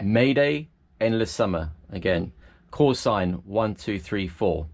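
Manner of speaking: slow, deliberate distress call; slow radio call. Shown as a demonstration. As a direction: spell it out slowly over the radio. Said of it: "is you'd say first".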